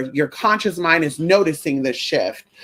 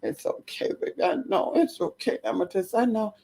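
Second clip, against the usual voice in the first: whisper; 4 semitones higher, 7 dB quieter than usual. Real, not acted. Soothing pet.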